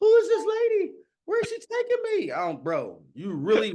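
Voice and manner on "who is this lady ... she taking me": mock very high, loud, tearful wailing cry. Retelling a video of being taken home after tooth removal: mock crying. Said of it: "I'm in there crying like".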